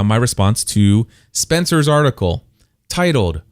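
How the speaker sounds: ordinary talk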